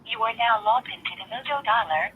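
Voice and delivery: recorded automated prompt voice; even, prerecorded system announcer; phone menu voice. Real, not acted.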